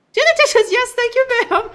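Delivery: high, loud commanding wife voice; bossy wife. Acted. Wife ordering her man to do the dishes, high and bossy. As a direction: bark the order like a demanding wife.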